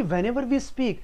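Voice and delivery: very slow, each word placed like a pearl; slow, polished diction; slow clear English. Shown as a demonstration. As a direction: say it slowly and cleanly. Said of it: "मोती की तरह निकलना चाहिए".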